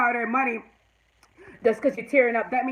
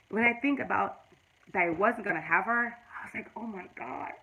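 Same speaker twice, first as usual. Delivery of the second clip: real tearful catch with a heavy sigh; fighting back real tears; choked up. Real, not acted. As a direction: voice fading as tears well up. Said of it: "that just tear me up".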